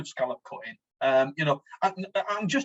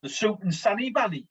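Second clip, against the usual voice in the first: Smoggy accent, slightly higher pitch; 4 semitones higher than usual. Shown as a demonstration. Co-host asks for the van name in Smoggy, Smoggy accent. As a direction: say it in your own Smoggy accent. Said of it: "do it in a smoggy accent".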